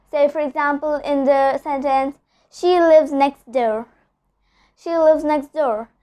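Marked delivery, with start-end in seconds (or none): 2.5-3.9 "next door" said as nex door, slowly; slow model, "next" running into "door" without T; dropped T. Shown as a demonstration. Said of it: "I'm not pronouncing the T sound". 4.8-5.9 "next door" as nex door, slowly; slow elided "next door", no T heard; dropped T. Shown as a demonstration. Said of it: "I'm not pronouncing the T sound".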